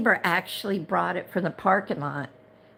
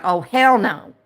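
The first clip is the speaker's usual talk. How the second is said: retold refusal; 6 dB louder than usual. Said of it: "And I was like".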